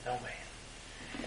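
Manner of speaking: hushed whisper fading out; solemn whispered echo. Real, not acted. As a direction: breathe it almost silently.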